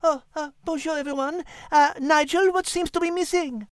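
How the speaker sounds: put-on light French accent for a cat; a polite French feline, lightly accented. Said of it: "stated our thoughtful feline".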